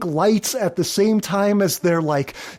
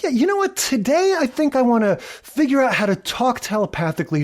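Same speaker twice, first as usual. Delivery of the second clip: lightly voiced breezy researcher, pitched higher; casual mock genius; 6 semitones higher, faster than usual. Smartest people at the clinic musing idly, mock casual. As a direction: toss it off high, mocking a scientist's whim.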